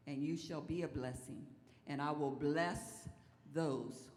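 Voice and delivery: measured, deliberate Bible reading; solemn pulpit reading; scripture reading. Real, not acted. Reads scripture aloud to congregation.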